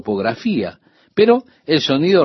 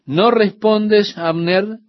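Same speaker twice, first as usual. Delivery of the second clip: slow, high call across the valley; 7 semitones higher, slower than usual. Retold or imitated. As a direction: call out to Abner from the hilltop, drawn out. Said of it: "Y dio voces David".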